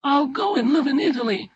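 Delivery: high, loud tearful threat; screaming at father. Acted. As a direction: shriek it at your father in defiance. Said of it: "she screamed at her father".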